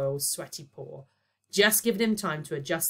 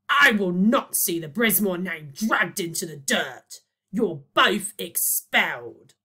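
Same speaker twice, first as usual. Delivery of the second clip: slow, loud, indignant; angry outburst; 4 semitones higher, 8 dB louder, slower than usual. Acted. Boyle to the children, furiously expelling them. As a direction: lay down the law. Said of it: "screamed Boyle".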